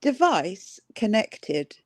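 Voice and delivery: Device connected drawn out slowly like a machine; slow robotic device voice. Retold or imitated. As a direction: announce it slowly like an earbud prompt. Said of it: "It would be more like".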